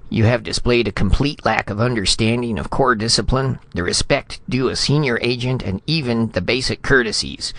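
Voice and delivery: high, formal scolding, building; severe reprimand. A narrator's reading. Ambassador formally reprimanding vice consul Retief, severe. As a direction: pompously reel off the list of offences. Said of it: "looked severely".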